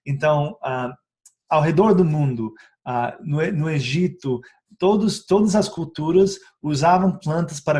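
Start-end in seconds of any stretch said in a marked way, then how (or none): none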